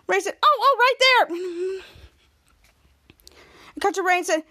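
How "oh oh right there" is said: high, drawn-out acted alert; excited sighting. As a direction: blurt it out, pointing him out. Retold character spots the fugitive.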